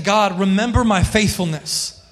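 mild acted pleading, pitch climbing toward the end. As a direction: plead with a touch of urgency. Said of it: "He started pleading with God".

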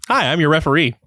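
bright upbeat host greeting; cheery welcome, a little too happy; inappropriately cheerful. Real, not acted. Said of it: "Why do you sound so cheery?".

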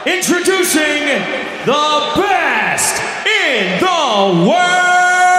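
slow, sung-out announcer call; ring announcer intro. Retold or imitated. The announcer retrying the champion's intro, sung out. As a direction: stretch the last word out like a big intro. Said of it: "No, no, no".

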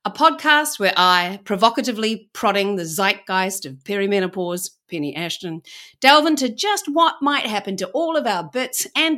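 bright, upbeat host opening; cheery show intro read; podcast intro. Acted. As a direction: welcome listeners like a radio host.

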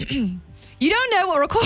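lightly put-on British accent; attempted British accent. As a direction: try a British accent and abandon it midway. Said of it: "it says British accent in parentheses".

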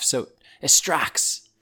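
slow southern drawl creeping in; drawn-out southern vowels; southern accent slip. Real, not acted. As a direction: let a southern accent slip into the put-on one. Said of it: "my accent's going southern".

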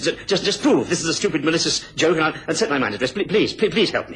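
frightened pleading. Acted. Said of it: "You really are frightened".

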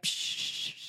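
long unvoiced dismissive shush; dismissive "psh". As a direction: imitate a scornful brush-off with a hissed "psh". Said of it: "They're like".

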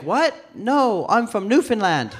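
high, startled denial; taken aback. Acted. Newfoundlander corrects comic in bar, taken aback. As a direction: correct him, baffled by the question. Acts puzzled stranger denying it.

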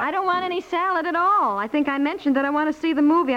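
finally losing patience; wife snapping at husband over the salad; fed up. Acted. Wife fed up, wants the movie.

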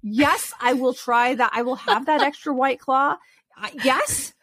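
eager, emphatic yes to everything; excited reenactment. Retold or imitated. Mom away from her kids saying yes to another drink, excited. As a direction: play up giddy airport freedom, stretching the yeses. Acting out tipsy freedom from kids.

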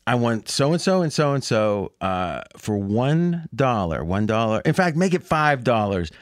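low, slow, deliberate phone order; retold bettor placing a bet, drawn out and low; Ted Baxter. Ted placing his bet with Lou's bookie, slow and deliberate. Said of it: "And Ted goes".

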